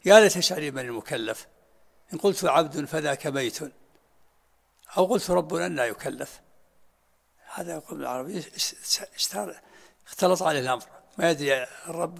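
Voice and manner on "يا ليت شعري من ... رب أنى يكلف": reciting verse. Retold or imitated. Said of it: "كما قال في شعره المعروف".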